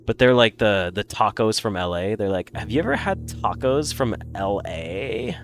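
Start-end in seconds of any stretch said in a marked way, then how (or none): 2.5-5.4 Valley Girl with attempted, failing vocal fry; snobby Valley Girl. Recalling a skit on LA tacos, snobby Valley Girl accent. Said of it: "I don't know how to do Vocal Fry".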